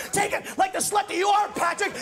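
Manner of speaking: hammed-up bellow of a crude taunt; retold scream.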